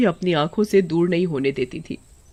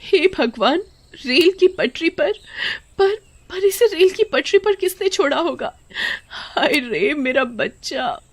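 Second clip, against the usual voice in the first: shocked mother; 9 semitones higher than usual. Acted.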